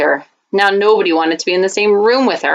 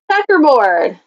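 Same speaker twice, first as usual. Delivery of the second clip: called out; 5 semitones higher, slower than usual. Acted. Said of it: "Someone else yelled out".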